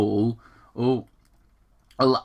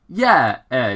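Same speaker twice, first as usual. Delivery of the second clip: cheering; 5 dB louder than usual. Acted. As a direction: whoop it like a kid in midair. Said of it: "young Sonic cheered".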